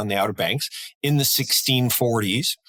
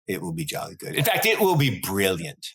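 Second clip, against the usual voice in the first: put-on British accent; 4 semitones lower than usual. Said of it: "you can expect more accents like that".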